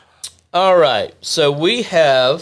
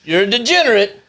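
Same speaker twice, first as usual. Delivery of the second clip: lightly acted mob collector, pitched up; put-on debt collector's accusation; mobster threat; 6 semitones higher, faster than usual. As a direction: play a mock mob shakedown. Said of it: "maybe mob relations and said".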